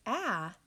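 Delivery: ah as the short a in cat; short a sound. Shown as a demonstration. Teacher modelling the short A sound for colouring. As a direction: say ah, open and short. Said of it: "short A sound that says".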